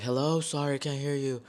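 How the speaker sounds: retold phone shout over blasting music; calling over noise. Grandfather on the phone with music blasting, calling over it.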